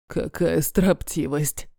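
low, slow, soft scornful sneer; scornful snort. Acted. Dragon Kadir mocks the defiant wolf, low slow sneer. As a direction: drawl the contempt down low and quiet. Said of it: "фыркает Кадир".

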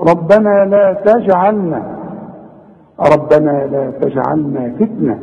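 slow recitation with echoing j in تجعلنا; qalqalah on ج. Shown as a demonstration. Teacher repeating the verse for students, qalqalah in تجعلنا. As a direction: release the ج of تجعلنا before the ayn. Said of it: "أقلقلها".

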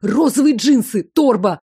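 high, sweet gushing voice, slowing down; high cutesy sing-song. A narrator's reading. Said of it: "пропел своим высоким, няшным голоском".

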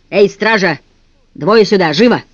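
villain summoning guards from the yard, commanding call. Acted. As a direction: bark orders across the yard.

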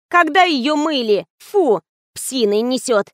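high, slow whining complaint; a spoiled actress grumbling; capricious whine. A narrator's reading. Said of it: "закапризничала". (капризно)

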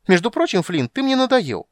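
ringing shout. Acted. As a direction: yell it clear across the hall. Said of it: "крикнул он звонко".

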